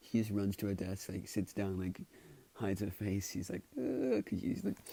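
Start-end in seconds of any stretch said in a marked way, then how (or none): 3.8-4.2 high, acted "uh" of embarrassment; embarrassed groan. Girl hiding her face at her desk, embarrassed high groan. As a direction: let out a high mock groan. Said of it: "she's embarrassed".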